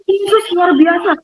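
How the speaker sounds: mild mock shout. Neighbor calls out while entering the back door, high and slow. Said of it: "dia teriak".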